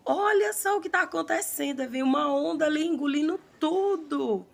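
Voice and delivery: woman screaming at the wave; desperate scream. Retold or imitated. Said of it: "Ela gritava".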